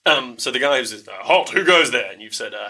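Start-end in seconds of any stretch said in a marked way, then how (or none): 1.2-2.1 stern guard challenge. Acted. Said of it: "the guy with the lower voice".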